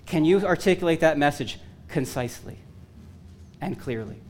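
deadpan, self-mocking punchline; with a little humor. Shown as a demonstration. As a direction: tease them by mumbling the "clearly" part. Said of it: "I'm gonna have to say this with a little bit of humor".

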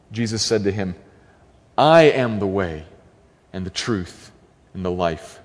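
measured, solemn Bible reading; scripture reading. Acted. Preacher reading scripture to the congregation, solemn and measured. Reads John fourteen aloud.

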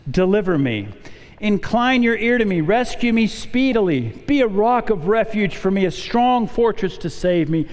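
measured, solemn reading of a psalm; steady, prayerful pulpit reading; scripture reading. Acted. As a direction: read the psalm aloud with reverence. Reads psalm aloud to congregation.

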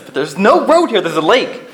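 very high, loud panicked shout. Retold or imitated. Acted car quarrel, Dwight panics.

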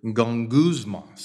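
"gongusmos" said slowly and evenly; slow model pronunciation. Shown as a demonstration. Preacher teaching a Greek word, "gongusmos" pronounced slowly. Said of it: "Say that with me".

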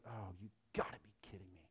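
mock disappointed sigh. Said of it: "shaking his head as like".

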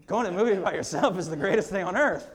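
happy mock rapture, laughing; gushing with a laugh. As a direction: gush about it with a chuckle. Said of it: "I'm like".

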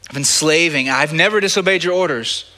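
a touch of resentment, NEVER leaned on; mild retold anger. Preacher voicing the older son's complaint to his father, mild anger. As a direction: voice the son's grievance lightly, stress never. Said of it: "he's angry".

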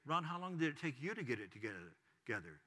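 soft, low voiced murmur in the ear; retold whisper. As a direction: quietly imitate a private, pointed question. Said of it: "speak and whisper in my ear and say".

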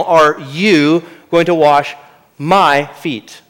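slow, weighted disbelief on wash and MY; emphatic question. Retold or imitated. Peter asking Jesus, slow emphatic disbelief. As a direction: lean on MY, stretched out slowly. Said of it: "with emphasis in the original".

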